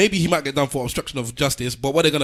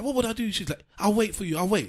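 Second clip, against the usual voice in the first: put-on old actress; 8 semitones higher than usual.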